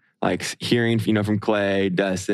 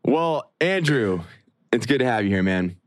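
put-on British accent. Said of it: "your accent is terrible".

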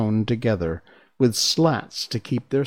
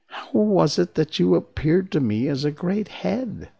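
higher-pitched, puzzled questioning; bewildered; 8 semitones higher than usual. A narrator's reading. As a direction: ask it as if bewildered. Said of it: "said Dorothy in bewilderment".

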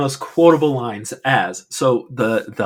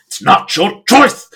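higher, louder mock yell; heated yelling; 9 semitones higher, 9 dB louder than usual. Podcaster imitating the owner yelling at his son's fiancée. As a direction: snap at her like an angry father. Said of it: "he gets heated".

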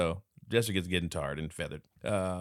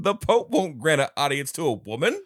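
laughing mock; 9 semitones higher, 9 dB louder than usual. Real, not acted. Mocking ruling, laughing.

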